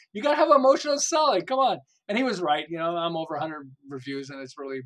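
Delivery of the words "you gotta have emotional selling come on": higher and louder urging; loud pleading insistence; insistent push. Retold or imitated. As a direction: press him like an exasperated mentor. Mentor insisting on a name change.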